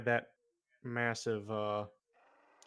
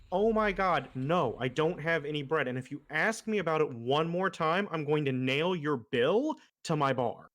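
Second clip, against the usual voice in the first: exasperated bartender; 3 semitones higher, 4 dB louder than usual. Acted. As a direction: snap at the pestering duck, losing patience. Bartender fed up with the duck.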